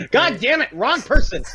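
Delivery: embarrassed frustrated shout; exasperated outburst. Real, not acted. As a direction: curse yourself for the mix-up. Realises he named the wrong Greek.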